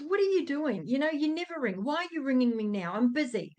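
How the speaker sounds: mock exasperation, fired off at the caller; angry dad. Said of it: "got his angry voice going".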